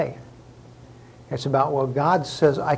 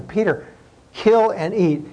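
lightly voiced heavenly command, pitched up; 5 semitones higher, 3 dB louder than usual. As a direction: call him by name, then give the order. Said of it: "this voice saying to him".

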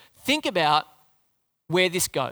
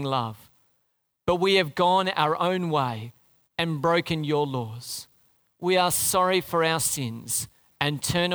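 slow, lower, reverent prayer voice; prayer of confession; 3 semitones lower, slower than usual. Acted. Preacher leading the congregation in confession, slow reverent prayer. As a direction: pray it slowly, leading the room.

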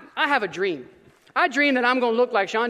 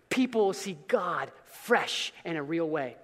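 hushed aside; 6 semitones lower, 7 dB quieter, slower than usual. Real, not acted. Soft aside after formula.

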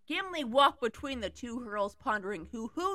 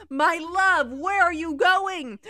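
high, loud call after her; 6 semitones higher, 9 dB louder, slower than usual. Acted. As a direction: call after your friend in alarm. Calls after running friend.

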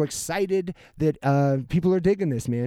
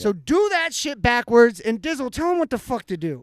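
mock announcer voice; 8 semitones higher, 5 dB louder than usual. Mock outro voice to listeners.

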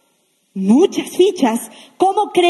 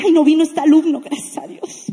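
half-whispered relief, gracias a Dios let out like a sigh; lightly played teacher, glad the pupil skipped class; mock relieved teacher.

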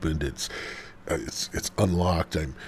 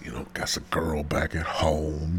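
whispered excuse; 3 semitones lower, 5 dB quieter than usual. Retold or imitated.

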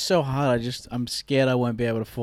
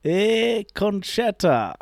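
slow, higher Scottish attempt; attempted Scottish accent; 5 semitones higher, much slower than usual. Shown as a demonstration. Friend showing the line to copy, attempted Scottish accent. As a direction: demonstrate a rough Scottish accent slowly. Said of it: "can you do it so I can copy".

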